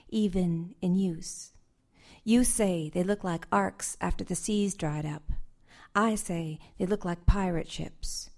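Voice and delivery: measured, unhurried poetry reading; poem reading. Acted. Poet reading her poem to the audience, measured and unhurried. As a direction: read each image slowly to the room.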